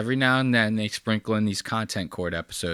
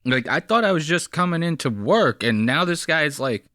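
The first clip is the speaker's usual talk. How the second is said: higher, mildly panicked rambling; mock panic; 4 semitones higher than usual. Host imagining the scared masseuse at work. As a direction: lightly act out a frightened worker. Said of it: "She was probably like".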